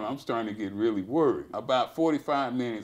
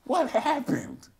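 apprehensive; 14 semitones higher, slower than usual. Retold or imitated. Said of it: "I approach him with apprehension".

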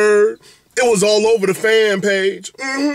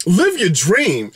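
slow emphatic; much slower than usual. Shown as a demonstration. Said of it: "At the end of the day".

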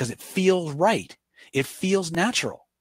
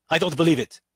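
mock irate retort, a bit louder; irate objection; 3 semitones higher, 4 dB louder than usual. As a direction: play the angry skeptic in the audience. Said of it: "He's irate".

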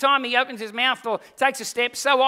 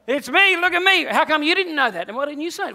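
bragging; 5 semitones higher, 4 dB louder than usual. Acted. Peter bragging to other disciples.

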